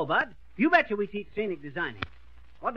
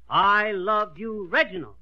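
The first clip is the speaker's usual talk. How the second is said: slow love line, Reginald hit firmly; emphasize Reginald as though just discovering it; stress on Reginald; 5 dB louder, slower than usual. Shown as a demonstration. Coach shows the pupil how, stressing Reginald. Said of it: "Emphasize the word Reginald like this".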